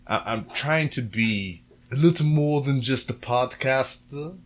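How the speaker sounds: slow, put-on drunken auntie accent, lightly done; drunken Medea accent. Vlogger tries a new voice for his viewers, slow mock drunken Medea accent. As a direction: ease into a sloppy, tipsy matriarch accent, slowly. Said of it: "I don't know what accent that is".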